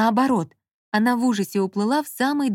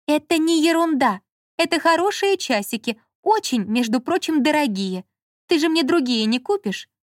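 put-on higher, louder indignant girl; higher, louder offended young woman; indignant Lola; 7 semitones higher, 3 dB louder than usual. A narrator's reading. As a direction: defend your watch, offended.

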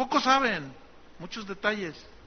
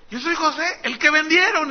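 higher, louder, pressing each word; emphatic revelation; 9 semitones higher, 7 dB louder than usual. Acted. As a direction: make them face what they did. Joseph reveals identity emphatically.

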